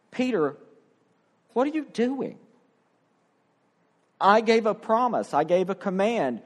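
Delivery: a hint of a disappointed Jesus; Jesus questioning. Jesus confronts Peter.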